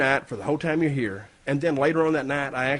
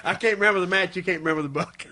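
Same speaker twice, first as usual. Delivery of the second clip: laughing; 4 semitones higher than usual. Real, not acted. Laughing at shared memory gaps.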